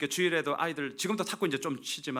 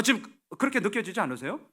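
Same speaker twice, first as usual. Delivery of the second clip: ordinary talk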